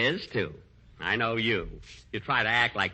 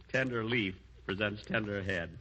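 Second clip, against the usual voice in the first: soft, lower private repeat; murmured to himself; 3 semitones lower, 7 dB quieter than usual. Acted. Comedian alone repeating his gag, murmured to himself. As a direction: savour your own line under your breath.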